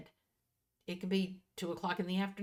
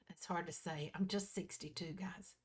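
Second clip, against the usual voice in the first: breathy whispered aside to the viewers; a secretive little whisper about age; 6 dB quieter than usual. Real, not acted. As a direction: drop to a whisper for a quick confession.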